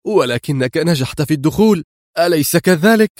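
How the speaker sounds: high, eager question; hopeful, chasing after him. Acted. Woman following her rescuer, mildly eager and high. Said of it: "هتفت وهي تتبعه في حماسة".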